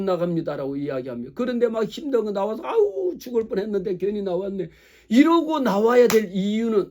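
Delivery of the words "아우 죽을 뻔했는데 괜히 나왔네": mock exhausted groan. Acting out dragging in exhausted.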